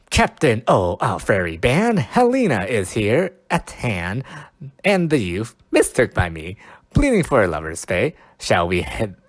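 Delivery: dramatic Shakespeare reading. Acted. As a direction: proclaim it like a stage actor. Reading Puck's lines aloud.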